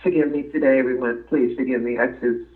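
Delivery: real, halting apology through tears; tearful, choked up. Real, not acted. Guest asking everyone's forgiveness after heart-wrenching story, tearful. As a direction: falter and restart, holding back tears. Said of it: "I got tears in my eyes".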